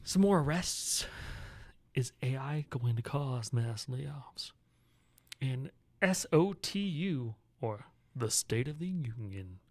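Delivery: slow, stretched-out headline read; podcaster voice. Pretend. Host teasing the day's headlines, podcaster voice. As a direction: put on a podcast host voice, drawing out each topic. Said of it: "You like my podcaster voice?".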